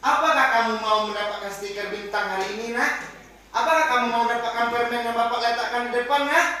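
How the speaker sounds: high, enticing offers of rewards; teacher demonstrating the monitor, sweetly bribing. Shown as a demonstration. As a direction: tempt the child with prizes. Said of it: "Ini apa? Pemantau".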